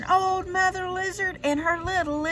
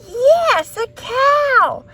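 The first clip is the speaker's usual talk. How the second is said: high and loud, a delighted yes; excited storyteller; 10 semitones higher, 7 dB louder, much slower than usual. A narrator's reading. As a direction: tell the kids with glee. Reading to children, emphatic.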